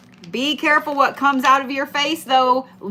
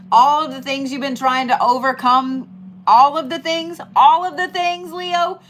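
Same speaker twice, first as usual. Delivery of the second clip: building excitement; 3 semitones higher, 3 dB louder than usual. Real, not acted. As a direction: build it up to a hype peak. Building hype.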